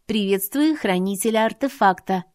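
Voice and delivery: hushed machine voice, toned down; robot obeying a shush. Acted. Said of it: "Тише!".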